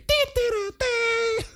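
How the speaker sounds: shrill mock wail; high crying squeal. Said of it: "that's my, uh, John Cena impression".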